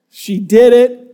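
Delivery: triumphant. Real, not acted. Triumphant retelling of daughter's success.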